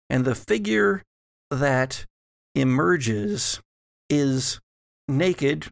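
usual speaking voice

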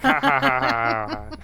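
high forced ha-ha laugh; mock laugh. Biden laughing at his own joke, mock high laugh. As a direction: cackle smugly at the punchline. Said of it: "It's like".

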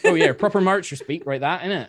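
put-on laughing broad West Country Marcher accent. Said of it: "nothing better than doing a nice West Country accent".

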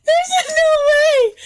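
shouting. Real, not acted. Disbelieving outburst.

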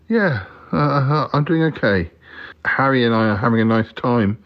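high puppet voice; Cromitty's voice. Pretend. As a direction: lift the pitch for the toy friend.

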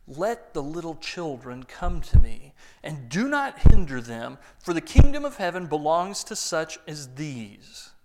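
proclaiming. Acted. Preacher booms Jesus' words to the congregation. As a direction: declare it to the whole room.

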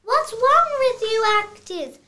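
loud, high exasperated call; exasperated cut. Acted. Director fed up with his actors, loud exasperated call. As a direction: stop the take, fed up.

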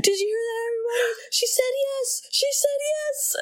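high-pitched, quavering impression of an old film star; Jimmy Stewart. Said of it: "He's doing a Jimmy Stewart impression".

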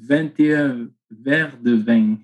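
vingt et un verres de vin with ringing southern nasal endings; Marseille accent. Shown as a demonstration. Guest showing the host his sunny southern accent. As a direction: say the phrase like someone from Marseille. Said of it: "twenty glasses of wine in French".

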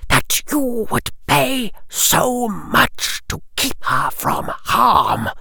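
quietly menacing lord; cold aristocrat. Acted. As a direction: Lucius Malfoy questions the boy coldly. Lucius Malfoy interrogating Harry.

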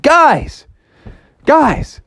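high falling call to friends; acted excited hail. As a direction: call the gang from across the yard. Froggy calling his friends outside.

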